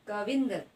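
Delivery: कविंदर with force on the short "vin"; teacher demonstrating the stress in कविंदर; stressed syllable. Shown as a demonstration. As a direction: press firmly on the middle of कविंदर. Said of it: "जोर पड़ रहा है".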